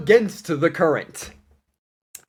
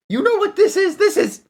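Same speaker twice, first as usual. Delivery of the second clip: much higher, louder shouted boast; retold scream; 5 dB louder than usual. Nico shouting at the cat over rat jerky, high mock scream. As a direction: yell it out, holding up the jerky. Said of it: "And he screams".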